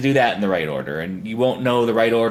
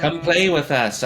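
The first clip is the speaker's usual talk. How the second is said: lightly voiced ghostly twins, higher and slow; a slow, raised-pitch hint of the twins; creepy twins; 6 semitones higher, slower than usual. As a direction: draw out the twins' invitation. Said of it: "or the twins get you".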